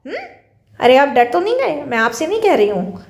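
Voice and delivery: blunt Meerut-style call; Meerut dialect. Shown as a demonstration. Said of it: "यही हम अगर मेरठ में चले जाएं".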